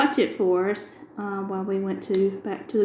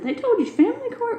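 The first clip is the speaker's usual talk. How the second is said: higher, disbelieving question; astonished. Retold or imitated. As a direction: clerk can't believe the directions. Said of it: "She said".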